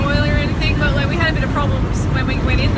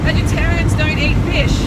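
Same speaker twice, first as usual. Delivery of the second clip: indignant; 4 semitones higher, 5 dB louder than usual. Retold or imitated. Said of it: "I didn't say it like that".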